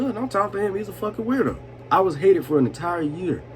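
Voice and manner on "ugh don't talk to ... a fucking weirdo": high, snooty imitation of a teen girl; mocking girl voice. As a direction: sneer it like a disgusted best friend. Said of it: "best friends come over and like".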